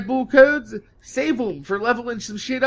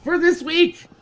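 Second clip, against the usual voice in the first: slow, higher put-on outro voice; slow hammed-up fake sign-off, higher; mock outro; 10 semitones higher, 6 dB louder, slower than usual.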